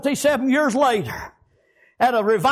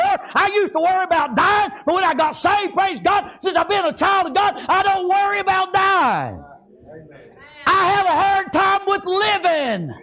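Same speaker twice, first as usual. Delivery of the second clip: fervent testimony; testifying sermon; 3 semitones higher than usual. Acted. Preacher testifying to church he no longer fears dying. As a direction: preach your own salvation with conviction.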